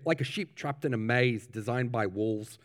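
put-on patchy New Zealand accent. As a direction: slip lightly back into a New Zealand minister's accent. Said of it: "I'm gonna go in and out of it".

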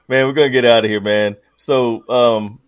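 numb mouth, slurred words; mouth won't work. Real, not acted. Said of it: "my mouth won't work anymore".

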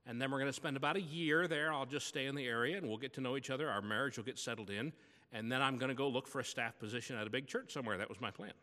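ordinary talk, nothing marked

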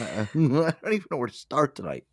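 normal talking voice

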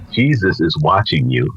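low, mildly ominous warning; a hint of an eerie voice from the dark; spooky mystery voice. Unseen voice warns a burglar in the dark, mildly spooky. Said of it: "That's kinda spooky".

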